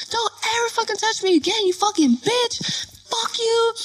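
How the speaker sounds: high-pitched angry outburst at normal volume; retold furious warning. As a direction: re-enact telling him off. Retold furious warning after slap.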